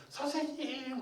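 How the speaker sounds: high, drawn wail without loudness; imitated tearful cry. Weeping women calling after their teacher, mock wail. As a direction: call out like a mourning woman. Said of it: "여인들이 더 크게 울면서".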